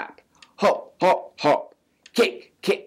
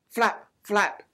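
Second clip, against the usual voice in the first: plain reading voice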